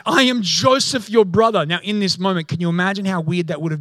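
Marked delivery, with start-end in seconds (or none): 0.0-1.7 acted-out dramatic declaration; dramatic reveal. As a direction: proclaim it as a big reveal. Joseph's reveal acted to brothers.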